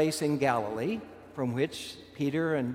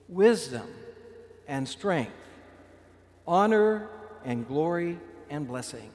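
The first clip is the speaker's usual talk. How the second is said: mild acclaim; 3 semitones higher, slower than usual. Retold or imitated. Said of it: "they cried out in a loud voice".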